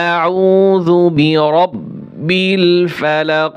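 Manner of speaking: أعوذ برب الفلق, slow Quranic recitation with a bouncing qaf at the end of الفلق; qalqalah on the end. Shown as a demonstration. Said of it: "কলকলা হবে লাস্টে". (ধীরে তেলাওয়াত, শেষে কলকলা)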